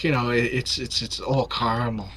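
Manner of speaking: lightly imitated Newfie accent, CAR-mul. Friend describing a treat, retold in light Newfie accent. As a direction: retell it with a hint of Newfie. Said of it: "in a Newfie accent".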